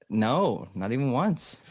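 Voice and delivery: a hint of Boston in the vowels; Boston accent. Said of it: "save your Boston accent for later".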